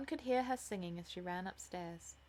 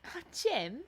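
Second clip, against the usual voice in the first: amused, higher exclamation; laughing; 6 semitones higher, 5 dB louder than usual. A narrator's reading. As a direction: playfully chide your brother.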